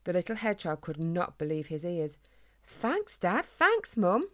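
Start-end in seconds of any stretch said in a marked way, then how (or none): 2.7-4.3 much higher, rising, louder thanks; boy thanking his parents, high and thrilled; excitedly. A narrator's reading. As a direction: burst out with delighted thanks. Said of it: "he said excitedly".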